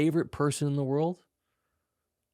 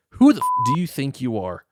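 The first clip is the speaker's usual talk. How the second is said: mock shout; 4 semitones higher, 9 dB louder than usual. Peak of the mock rant.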